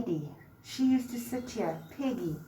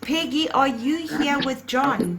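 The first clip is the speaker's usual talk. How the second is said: calling out; 3 semitones higher, 9 dB louder than usual. Real, not acted. Psychic calling out to spirits.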